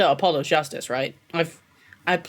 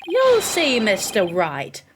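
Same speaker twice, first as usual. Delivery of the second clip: hammed-up villain promise; taunting rival prosecutor; 2 semitones higher, much slower than usual. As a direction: draw out the name theatrically. Rival prosecutor's acted threat.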